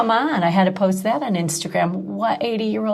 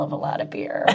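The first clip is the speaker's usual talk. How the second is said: laughing; 9 dB quieter than usual. Real, not acted. Laughing through her own story.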